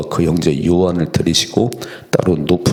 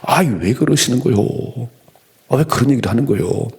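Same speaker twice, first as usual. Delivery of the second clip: protesting Peter; 5 semitones higher than usual. Acted. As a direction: plead in protest, pitch lifted. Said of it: "막 항변을".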